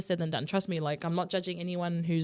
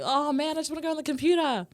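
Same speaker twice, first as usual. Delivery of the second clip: higher-pitched mock childhood complaint; retold kid's grumble; 6 semitones higher than usual. Kid complains to mum about computer ban, mock grumble. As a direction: lightly imitate a kid pleading for screen time. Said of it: "I used to be like".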